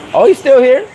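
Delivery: amused. Real, not acted. Streamer reacts to chat question.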